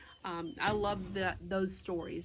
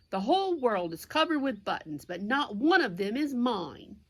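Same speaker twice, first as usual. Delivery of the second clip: understated angry outburst, a little louder; mild mock scream; 3 semitones higher, 5 dB louder than usual. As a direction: fume at the whole world, read for kids. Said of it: "jumped up and down and screamed".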